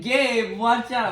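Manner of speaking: high, loud pilot's warning cry; play-acted panicked callout; mock alarmed warning. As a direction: yell a warning to a wingman, hammed up. Voicing pilot warning Gabe.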